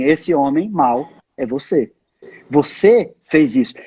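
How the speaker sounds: a hint of Nathan pointing the finger at David; prophet Nathan accusing. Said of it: "E aí Natan falou assim".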